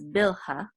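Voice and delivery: bilha with an initial b and stress on BIL; English pronunciation. Shown as a demonstration. Teacher giving the English name, bilha with b and first-syllable stress. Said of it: "in English we pronounce this as".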